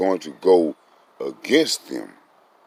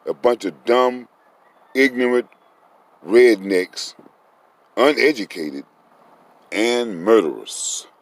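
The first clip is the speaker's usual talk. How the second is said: angry insults; 3 semitones higher, 3 dB louder than usual. Real, not acted. Angry tirade against the rednecks.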